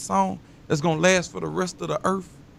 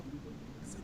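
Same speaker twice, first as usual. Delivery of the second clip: normal talking voice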